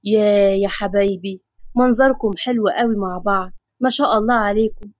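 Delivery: lightly voiced affectionate patriarch; loving. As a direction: bless the family with gentle affection. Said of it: "بص لهم بحب وقال".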